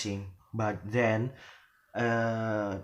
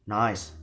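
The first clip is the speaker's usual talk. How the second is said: "nice" closing downward; falling intonation. Shown as a demonstration. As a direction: drop the pitch on "nice".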